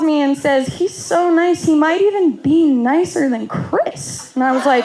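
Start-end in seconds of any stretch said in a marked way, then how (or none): 0.7-4.3 higher-pitched imitation of dad's praise; mock gushing. Dad calls to praise the new boyfriend, mock gushing. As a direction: parrot dad's raving with lifted pitch. Quoting dad's phone call.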